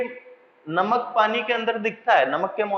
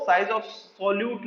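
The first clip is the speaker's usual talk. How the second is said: slow dictation; 4 dB quieter, much slower than usual. Shown as a demonstration. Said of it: "लिख लो".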